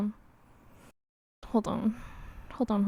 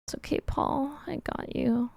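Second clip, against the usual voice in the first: whispering; 4 semitones higher, 6 dB quieter than usual. Real, not acted. Reassuring while drawing.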